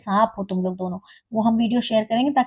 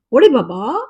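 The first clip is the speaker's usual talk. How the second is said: mocking call of ओड़ी बाबा, louder and rising at the end; 5 dB louder than usual. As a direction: call it out again louder as a jeer. Mock calling out the catchphrase.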